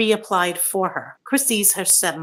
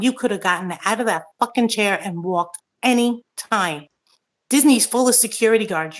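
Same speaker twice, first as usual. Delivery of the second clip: real anger. Real, not acted. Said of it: "I'm really pissed right now".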